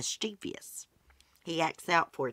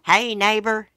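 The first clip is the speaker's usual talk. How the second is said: put-on kid calling out; 6 semitones higher, 10 dB louder than usual. Kid calling across the yard.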